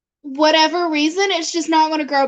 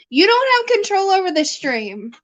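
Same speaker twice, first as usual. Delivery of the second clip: playful scolding; 4 semitones higher than usual. Real, not acted.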